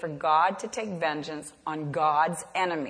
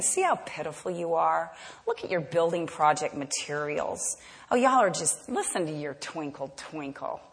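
a mocking enemy jeer, softer, fading away; sneering taunt; 3 semitones lower, 3 dB quieter than usual. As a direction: belittle them with quiet scorn. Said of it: "they're saying".

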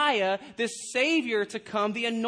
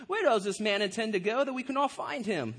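lightly voiced pondering scholar; a hint of pompous tea-drinker musing; mock-learned questioner, lightly done; pipe-and-tea scholars. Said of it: "they didn't probably talk like that".

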